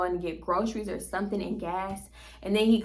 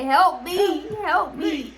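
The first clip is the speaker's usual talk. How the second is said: mock panic; 7 semitones higher, 3 dB louder, slower than usual. Coughing too hard to breathe.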